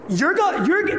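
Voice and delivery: can't finish the word, floored; stunned stammer. Retold or imitated. Stranger stunned that the pastor pays, stammering high.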